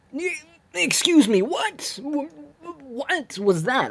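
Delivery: as if you just saw nonsense on screen; incredulous excuse me. Real, not acted. Baffled at the Force lunge.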